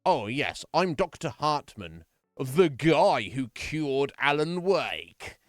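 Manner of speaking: lightly voiced pompous doctor boasting slowly; smug doctor. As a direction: puff up like a vain celebrity shrink. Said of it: "he could be like".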